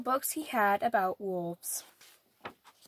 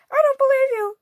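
doubting rabbit; 12 semitones higher, 9 dB louder, faster than usual. A narrator's reading. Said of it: "said the rabbit".

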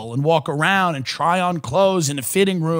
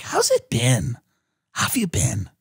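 mock pity; 7 semitones lower, 4 dB quieter than usual. Friend shocked at your looks.

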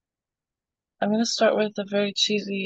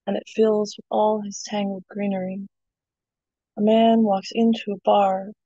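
poem reading. Acted. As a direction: read it like a spoken word poem. Reads her poem aloud.

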